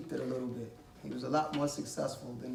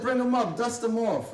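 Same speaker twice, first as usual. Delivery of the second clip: commanding king; 6 semitones higher, 5 dB louder than usual. Retold or imitated. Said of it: "And the king said".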